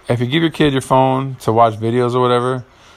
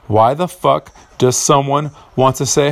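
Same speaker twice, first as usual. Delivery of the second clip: angry; 5 semitones higher than usual. Real, not acted. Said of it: "Okay, I'm getting upset".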